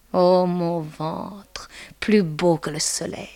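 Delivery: very slow, half-whispered praise; hushed adoration. Acted. Macaré adoring her own belly, slow and hushed. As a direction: linger on it in a reverent near-whisper.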